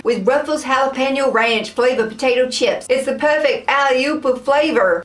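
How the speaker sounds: amateur American accent, reading aloud; attempted American accent. Shown as a demonstration. Taste tester reads ad copy off the packet in a shaky American accent. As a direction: struggle through a fake American accent. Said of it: "How hard can an American accent be?".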